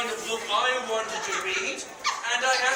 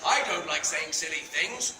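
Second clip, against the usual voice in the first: laughing complaint; 6 semitones lower than usual. Real, not acted.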